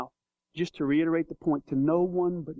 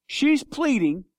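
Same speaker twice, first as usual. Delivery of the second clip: higher and slow on She's pleading; emphatic and slow; 6 semitones higher, much slower than usual. Acted. Preacher stressing the woman's plea, slow and higher.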